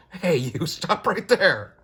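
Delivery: high, loud and slow call to halt; high-pitched comic-book halt; comic cop shout. Acted. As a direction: bark it out like a cop stopping someone. Voicing a comic character shouting.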